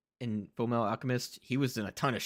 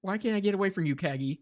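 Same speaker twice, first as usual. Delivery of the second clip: mock exasperated; 7 semitones higher than usual. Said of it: "It's like".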